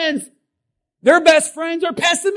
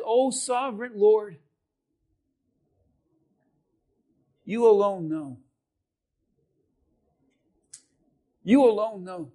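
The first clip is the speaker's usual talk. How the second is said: reverent hush; 5 semitones lower, 5 dB quieter than usual. Retold or imitated. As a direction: lower and softer, humble awe. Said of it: "And he says".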